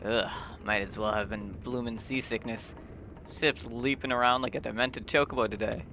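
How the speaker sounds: a light hint of a chatty old sailor; lightly voiced friendly ship's peddler. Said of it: "do the voices the best I can".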